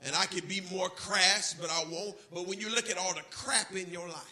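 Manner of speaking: ordinary talk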